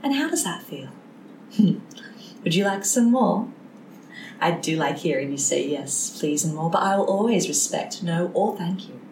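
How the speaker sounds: put-on soft, gentle teacher to a child; kindergarten teacher voice. Shown as a demonstration. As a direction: coax them softly like a kind teacher. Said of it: "my nice kindergarten teacher voice".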